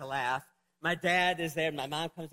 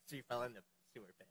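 laughing; 7 semitones lower, 9 dB quieter, faster than usual. Real, not acted. Laughs while telling.

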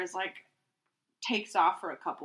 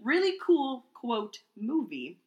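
reading aloud. Acted. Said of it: "I'm just gonna read it as is".

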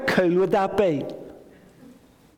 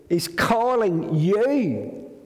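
tender call; 4 semitones higher, much slower than usual. Shown as a demonstration. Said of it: "Isn't that a lovely phrase?".

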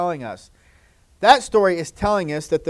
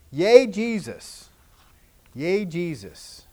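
demo cheer; slower than usual. Shown as a demonstration. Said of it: "Can you say".

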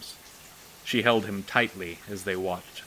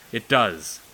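sharp, loud outburst, much louder; shouted; 3 semitones higher, 7 dB louder than usual. Acted. Upset boy shouting back at his sister. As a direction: burst out loud in protest. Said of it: "he shouted".

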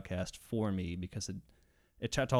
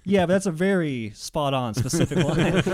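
louder mock detective pressing; mock cop; 4 semitones higher, 8 dB louder than usual. Podcaster as the cop doubting the rapper, louder. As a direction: push back like a smug cop. Cop pushing back, retold.

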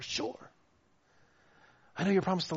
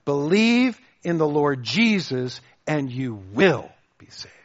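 certain, solemn; 2 semitones lower, 5 dB louder than usual. Retold or imitated. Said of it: "a word that is filled with certainty".

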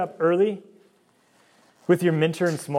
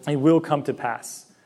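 slow, leaning hard on WILL; emphatic slow assurance; 2 semitones higher, 5 dB louder, slower than usual. Real, not acted. Preacher assuring the young adults, slow stress on will. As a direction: press "will" down firmly and slowly. Preacher affirming God's promise.

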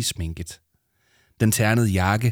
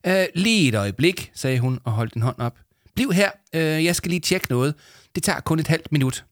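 much higher, brisk call; busy studio assistant; 7 semitones higher than usual. Acted. Headset lady calling Arthur to the studio, brisk. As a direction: hurry him out. Hørebøfdamen voiced.

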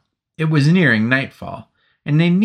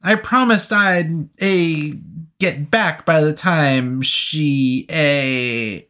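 higher, halting nervous soldier; halting explanation; 5 semitones higher, slower than usual. Acted. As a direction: fumble through the excuse. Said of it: "the man tried to explain".

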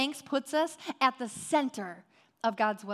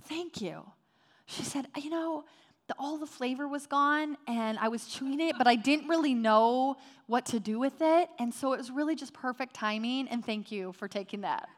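sweetly grateful. Retold or imitated. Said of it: "she just says so sweetly".

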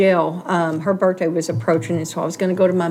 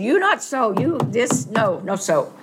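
put-on higher, lightly accented broken English as the sewing boss; mimicking broken English; 3 semitones higher, slower than usual. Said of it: "Miss Kumar".

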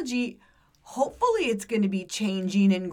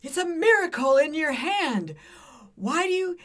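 comedian's rant; 2 semitones higher, 3 dB louder than usual. Retold or imitated. Retelling a comedian's phone skit to a co-host, mildly ranting. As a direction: imitate a comic going off in exasperation. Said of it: "he just went off on this thing".

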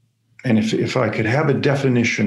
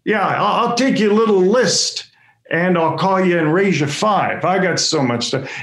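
excited one-upping; 6 semitones higher than usual. Retold or imitated.

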